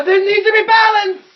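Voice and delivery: high, very loud proclamation; battle cry. Acted. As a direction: bellow it as a dramatic declaration. Player acts cry while pushing foe.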